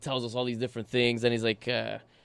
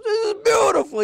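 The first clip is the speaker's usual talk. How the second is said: high, loud, hammed-up boast; proud Neapolitan driver; 11 dB louder than usual. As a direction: show off the terrible parking like it's art. Driver's boast, voiced impression.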